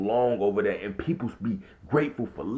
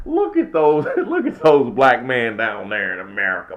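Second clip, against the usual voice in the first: mocking onlookers; 8 dB louder than usual.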